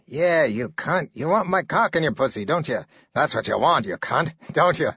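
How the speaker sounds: leering taunt. Acted. Buchner leering at girl.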